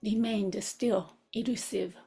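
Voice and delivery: unhurried phrases with long reflective pauses; guided contemplation. Real, not acted. Teacher links the master's struggle to students' own, meditative guidance. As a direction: lead listeners inward, leaving room after each thought.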